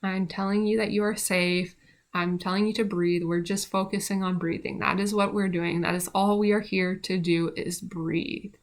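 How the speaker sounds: steady, calming coaching voice. Retold or imitated. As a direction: talk her through each breath, evenly. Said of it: "I said".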